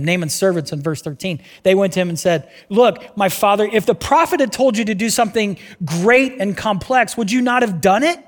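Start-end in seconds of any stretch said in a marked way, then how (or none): 2.7-8.2 pleading, higher and louder; urgent plea. Acted. Servants pleading with Naaman, higher and urgent. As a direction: servants coaxing their master.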